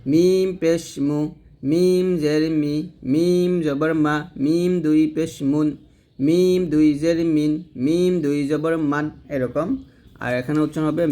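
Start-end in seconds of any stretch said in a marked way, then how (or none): 0.1-9.1 slow chanted spelling, long "মিম" before "মু", "মি", "মা"; simple mim demonstration. Shown as a demonstration. Teacher modelling the easy mim for learners, slow chant. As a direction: draw out "মিম", say "মু" plainly. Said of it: "সাধারণভাবে আমরা উচ্চারণ করব".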